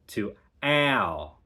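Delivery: "ow" said with the dialect vowel; ow vowel shifted. Shown as a demonstration. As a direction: bend "ow" into the accent's diphthong. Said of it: "the sound goes from ow".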